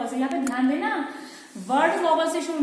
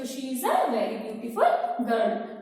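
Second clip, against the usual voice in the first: slow dictation; much slower than usual. Shown as a demonstration. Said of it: "repeats example slowly".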